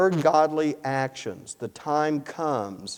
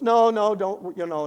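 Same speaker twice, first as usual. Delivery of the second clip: urgent protest; 7 semitones higher, 6 dB louder than usual. Retold or imitated. Attendant protesting his help.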